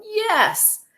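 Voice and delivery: high, loud YES; yelled insistence. A narrator's reading. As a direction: shout Yes right back. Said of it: "the man yelled".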